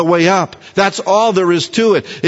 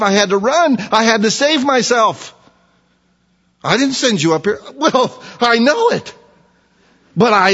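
voicing Elijah; 5 semitones higher than usual. Elijah complains to God.

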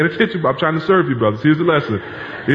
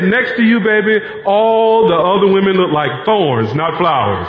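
smooth flattery; 3 semitones higher than usual. Retold or imitated. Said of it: "He said".

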